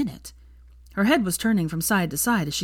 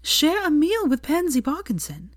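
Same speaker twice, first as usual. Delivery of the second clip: high-pitched, drawn-out alarmed question; fearful disbelief; 10 semitones higher than usual. A narrator's reading. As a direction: voice climbs high in slow, fearful dismay. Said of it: "her eyes widening fearfully".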